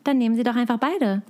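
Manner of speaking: beharrlich freundliche Verkäuferin; Verkäuferstimme. Shown as a demonstration. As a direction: zeig noch mal, wie man Kundschaft zurät. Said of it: "das ist meine Verkäuferstimme". (Verkäuferstimme, freundlich beratend)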